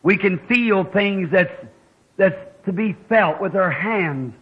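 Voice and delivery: slow, earnest public prayer; measured prayer from the pulpit. Real, not acted. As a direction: address God reverently, in long pauses. Leads congregation in prayer.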